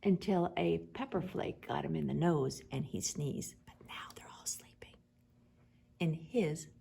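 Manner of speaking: soft hushed whisper; whispered recap. Real, not acted. Parent recapping quietly, whispering. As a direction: whisper so they stay asleep.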